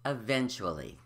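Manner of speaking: "eventually" in five syllables, i-ven-chu-uh-lee; full syllables. Shown as a demonstration. Teacher giving the real word, every syllable said. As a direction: keep the U after CH in "eventually". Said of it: "But the word is".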